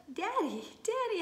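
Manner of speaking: high, loud joyful cry; yell. A narrator's reading. Child spotting his father on the ship, yelling with joy. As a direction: call to him across the pier. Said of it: "I yell".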